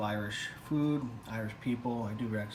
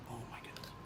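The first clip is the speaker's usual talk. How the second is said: ASMR whisper; 17 dB quieter, faster than usual. Acted. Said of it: "This is an A S M R".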